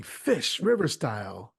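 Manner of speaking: calling out a catch with mock pride; mock yell.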